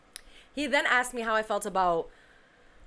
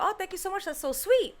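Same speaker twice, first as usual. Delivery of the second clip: retold gushing thanks; 10 semitones higher than usual. Retold thanks for birthday wishes.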